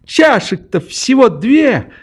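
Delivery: put-on high, provocative triumphant girl; defiant triumph. A narrator's reading. Nelli taunts the narrator after breaking the cup, high and triumphant. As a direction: crow over the broken cup. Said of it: "прибавила она".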